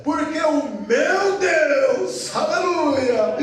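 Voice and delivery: slow, confident proclamation; Daniel declaring his faith; firm strong voice. Acted. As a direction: testify with joy. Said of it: "aquela voz firme, forte".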